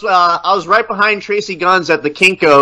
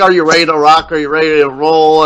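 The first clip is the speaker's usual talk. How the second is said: monotone imitation; 4 semitones lower than usual. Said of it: "you're doing it in so monotone".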